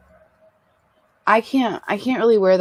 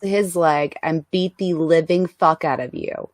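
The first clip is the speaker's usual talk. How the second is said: hammed-up Brooklyn tough mom; Brooklyn accent. Reprising her set improv, hammed-up Brooklyn accent. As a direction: threaten like a Brooklyn street mother. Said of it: "she came back with her Brooklyn accent".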